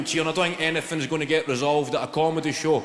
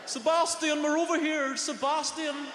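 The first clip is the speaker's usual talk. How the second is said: high, carrying call across the street; kids calling out; 11 semitones higher than usual. Retold or imitated. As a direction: call out to a pal far away. Kids calling to their friend.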